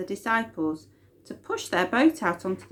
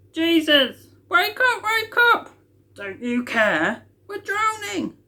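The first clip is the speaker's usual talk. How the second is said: high, loud frantic cry for help; terrified disciples shouting over the storm; panicked shout; 10 semitones higher, 4 dB louder than usual. Acted. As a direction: yell to wake him before the boat sinks.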